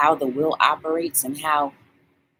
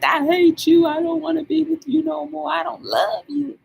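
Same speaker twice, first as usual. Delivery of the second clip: harsh breakup line; 10 semitones higher than usual. Retold or imitated. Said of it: "to come out with".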